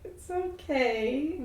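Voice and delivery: slow, gentle soothing; gentle reassurance. Acted. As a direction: coax her to calm down. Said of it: "gently trying to be like".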